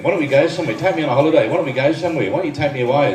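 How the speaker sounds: lightly mimicked nagging wife; mock nagging. Husband imitating wife asking for a holiday, mock nagging. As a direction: pester in a repetitive, mildly whiny singsong. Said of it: "Didn't stop nagging".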